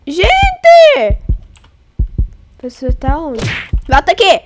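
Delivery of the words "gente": high, loud cry; shocked exclamation. Real, not acted. Streamer exclaiming to viewers, shocked. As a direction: cry it out in surprise.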